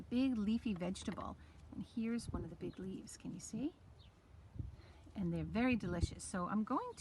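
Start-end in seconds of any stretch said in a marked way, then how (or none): 1.7-3.7 whisper. Real, not acted. Showing kale leaf to camera.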